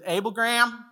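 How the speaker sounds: a little testy. Retold or imitated. Dad breaks out the middle name at his disobedient son, a little testy. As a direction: use the full name as a mild warning. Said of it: "getting a little upset".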